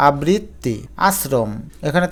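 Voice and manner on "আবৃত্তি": আবৃত্তি split as "abrit... ti"; careful pronunciation. Shown as a demonstration. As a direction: hold the double t of আবৃত্তি. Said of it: "উচ্চারণটা করে দেখো". (আবৃত্তি, ভেঙে উচ্চারণ)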